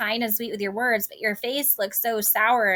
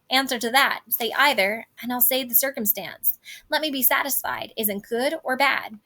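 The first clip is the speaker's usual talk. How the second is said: impatient. Acted. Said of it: "So she's saying".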